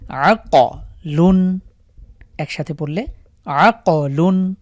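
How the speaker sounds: আক লুন very slow with ক bounced; slow, bounce the ক; আকলুন with bounced ক; qalqalah on ক. Shown as a demonstration. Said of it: "এখানে আমি ধাক্কা দিয়ে পড়ছি".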